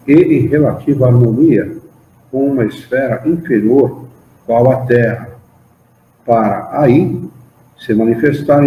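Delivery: measured, emphatic reading of a doctrinal text; formal study-group recitation with lifted key words; solemn read-aloud. Acted. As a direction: read it out phrase by phrase, pausing between clauses. Reads a religious text aloud.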